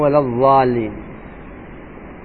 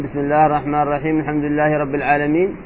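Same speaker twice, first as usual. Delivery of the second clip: quick recitation demo; faster than usual. Shown as a demonstration. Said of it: "لو قرأ".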